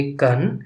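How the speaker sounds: कन as a standalone syllable; syllable sounded out. Shown as a demonstration. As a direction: say कन on its own, as a model. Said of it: "आप इसको बोलेंगे".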